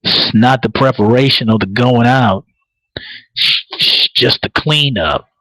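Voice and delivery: unbothered killer, understated; nonchalant. Retold or imitated. Killer telling his partner about the cleanup, nonchalant. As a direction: toss it off with mock indifference. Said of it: "Matt Bomber was so goddamn nonchalant".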